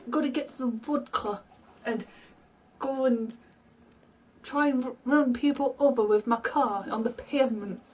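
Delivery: badly faked thick Russian accent, almost Scottish; strong Russian accent. Shown as a demonstration. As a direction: ham up a Russian accent, rolled r's. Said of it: "like, really strong Russian accent".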